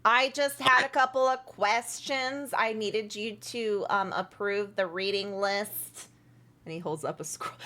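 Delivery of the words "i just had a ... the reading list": halfling voice. Acted. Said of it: "that's my halfling voice".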